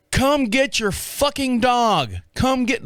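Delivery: high, slow mock holler; stretched-out angry call at contained volume; retold yell. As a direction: act out yelling towards the neighbors' house. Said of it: "yelling towards their house".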